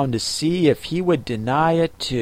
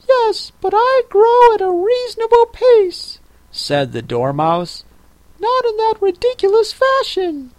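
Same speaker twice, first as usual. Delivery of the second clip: sleepy snoring dormouse; 5 dB louder than usual. Acted. Dormouse sulks at Alice.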